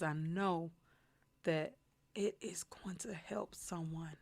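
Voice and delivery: holding back tears. Real, not acted. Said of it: "while I'm trying not to cry".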